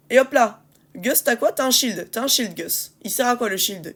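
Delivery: raging gamer. Real, not acted. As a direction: yell at the useless teammate. Yelling at useless teammate Gus.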